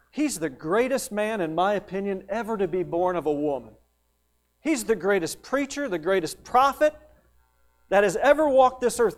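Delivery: hammed-up glowing tribute; effusive praise. Imagined boastful praise of John.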